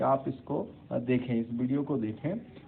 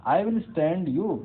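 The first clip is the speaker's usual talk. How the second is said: blunt statement; 6 semitones higher, 6 dB louder, much slower than usual. Shown as a demonstration. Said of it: "I'll always stand by you".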